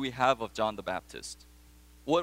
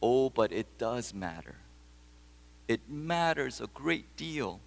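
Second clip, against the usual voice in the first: put-on soft, tender comfort to a weeping boy; tender mother; 3 semitones lower, 5 dB quieter than usual. Mother comforting her crying son, softly tender. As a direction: hold him close and soothe him gently. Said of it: "into her arms and says".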